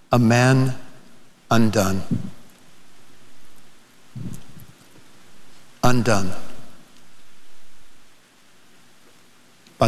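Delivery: low, phrase by phrase with long pauses; solemn, halting. Real, not acted. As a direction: let each word sink in, deep and deliberate. Solemn climax of preacher's testimony.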